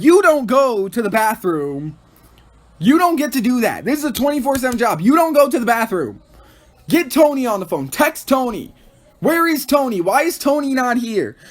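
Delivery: hammed-up demanding tirade; mock yell. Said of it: "Baker begins to yell at her".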